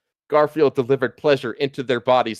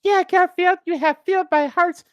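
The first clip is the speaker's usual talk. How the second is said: Abigail Adams voice. A narrator's reading. Abigail Adams swooning over Garfield, high mock falsetto. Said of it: "said Abigail Adams".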